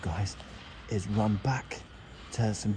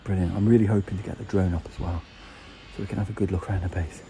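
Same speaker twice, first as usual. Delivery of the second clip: out of breath; 4 dB louder than usual. Real, not acted. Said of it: "I'm absolutely shattered".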